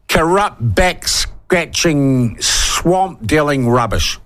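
slow, spat-out indignant list; worked up. Real, not acted. Radio host worked up over government corruption, slow and indignant. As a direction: give each word its own weight of disgust. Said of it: "God, I'm getting worked up".

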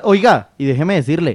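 insistent, animated interjection. Real, not acted. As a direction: butt in insistently to get the floor. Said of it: "¿Y por qué grita? Cálmese".

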